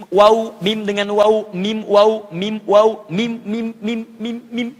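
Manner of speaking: slow drilled "mim" and "waw", lips closing; Arabic letters mim and waw. Shown as a demonstration. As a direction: model "waw" and "mim" for the class. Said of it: "Bertemu bibir atas dengan bawah".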